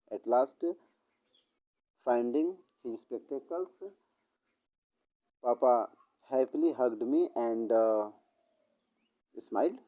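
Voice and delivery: story dictated word by word, very slow; slow dictation. Acted. Teacher dictates the sample story to students, very slow. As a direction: spell it out slowly for students to copy. Dictates corrected ending slowly.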